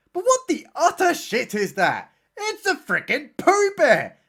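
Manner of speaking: high-pitched, hammed-up horrified discovery; over-the-top pretend alarm; mock shock. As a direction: exclaim it as if spotting the monster, stretching the words. Mock shock at sighting the bear.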